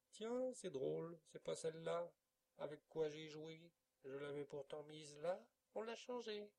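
voix d'enfant plus aiguë et forte, étonnement joué; fausse surprise d'enfant. A narrator's reading. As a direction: feindre l'étonnement en petit menteur. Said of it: "Il s'écrie". (l'enfant ment devant la canne, faux étonnement)

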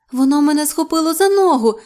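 high, loud, frightened whimpering complaint; whining. A narrator's reading. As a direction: wail about what grabbed you. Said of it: "скиглила Любонька".

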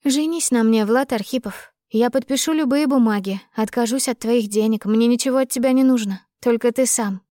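a hint of the impassioned young woman; lightly voiced heroine. Heroine proposes marriage to her lover, lightly voiced eagerness.

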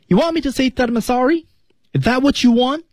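high-pitched film line, rising at the end; pitched high, lifting into a challenge; high rising question. Shown as a demonstration. Teacher models Marty's question for learners, high rising.

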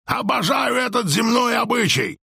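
very high, gleeful yell; loud shout. A narrator's reading. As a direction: shout it with wild delight. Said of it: "Кричал он так громко". (громкий восторженный крик)

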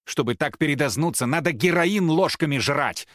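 yelled from hallway. A narrator's reading. Рома yells from the corridor, angry and loud. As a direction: bellow it from the hallway. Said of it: "проорал Рома из коридора".

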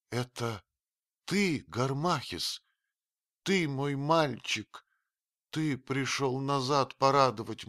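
recognise him, then cast him out; old woman, wonder turning to scorn. A narrator's reading. Old Atua recognising her foster son then cursing him.

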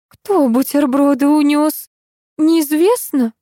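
frail, slow faltering question; weak voice. Acted. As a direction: ask faintly, as if ill. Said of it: "слабым голосом осведомилась".

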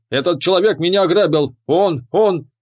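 high, quick acted outcry; yelling accusation. A narrator's reading. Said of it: "заорал он".

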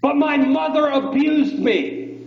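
high, drawn-out imitation of a tearful confession; tearful blurted outburst. Crying caller confessing to radio host, tearful retold outburst. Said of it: "Blurted out".

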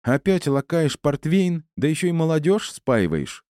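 flaring up. Acted. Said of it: "взвилась мама кошки".

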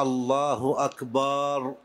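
أكبر said as أكبار with a long aa on the b; slow الله أكبر with the baa drawn out; stretched baa. Shown as a demonstration. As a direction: drag the vowel after the b in أكبر. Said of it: "فلا يقول مثلًا".

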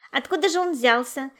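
lively, intrigued; puzzled wonder. A narrator's reading. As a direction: ask in amazement where it came from. Curious trains question the attendant.

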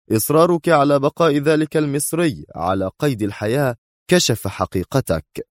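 exclaiming. A narrator's reading. Man waves his arm accusing Sonia, exclaiming. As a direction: exclaim it, slowing at the end. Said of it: "ثم لوح بذراعه هاتفا".

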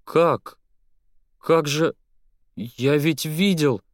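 high, stunned, barely moving lips; stunned disbelief. Acted. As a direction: gasp it out in disbelief. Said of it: "едва двигая губами".

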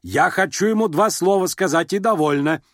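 irritated mother silencing her daughter; curt cut-off. A narrator's reading. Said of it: "быстро отрезала генеральша".

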